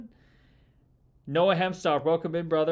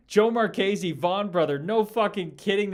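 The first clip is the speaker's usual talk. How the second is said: higher, louder, fired-up greeting; excited shout-out; 6 semitones higher, 7 dB louder than usual. Real, not acted. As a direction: hype up the viewer. Excited at the chatter's name.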